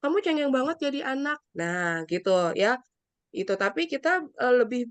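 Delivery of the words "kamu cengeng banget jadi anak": dismissive scolding. Retold or imitated. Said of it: "Jangan kita patahin emosinya dia".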